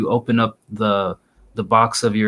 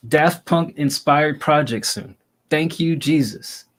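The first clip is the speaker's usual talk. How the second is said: higher and slow, hopeful; excited relief; 5 semitones higher than usual. Real, not acted. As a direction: say it like a prayer answered. Reacting hopefully to the title.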